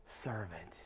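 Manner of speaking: soft, low, trailing to near-whisper; slow down and hush toward the end; quiet, reverent praise; tender commendation. Acted. Jesus commends the faithful believer.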